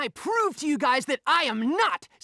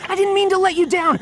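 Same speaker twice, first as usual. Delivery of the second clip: pleading cry; 7 dB louder than usual. Acted. Pleading to be forgiven.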